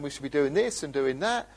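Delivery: mildly eager, pushing new plans with rising emphasis; enthused. Retold or imitated. Newcomer at every meeting urging the group on, mildly enthused. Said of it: "They're very enthused and saying".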